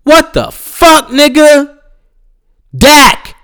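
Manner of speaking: high, slow disbelieving outburst; outraged. Real, not acted. Reacting to Dak's quote, high outraged disbelief. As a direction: blow up at the quote.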